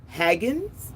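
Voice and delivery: Haggans asked with a short a like hag; trying a name. Shown as a demonstration. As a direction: Haggans as HAG-ganz, rising. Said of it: "I hate pronouncing people's name wrong".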